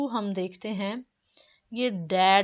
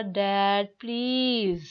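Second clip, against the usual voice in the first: pleading son; much slower than usual. Retold or imitated. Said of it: "please उस वे में कहा".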